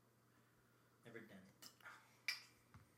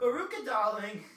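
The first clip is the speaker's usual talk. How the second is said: sassy drag queen; 10 semitones higher, 15 dB louder than usual. Pretend. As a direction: purr it like a diva. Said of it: "sounds like the original drag queen's name".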